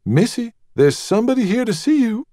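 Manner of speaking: high, breathless voice of a fretful maid; anxious maid. Acted. Maid rushing in to tell Rosemary, high and anxious. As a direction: flutter it out, hands wringing.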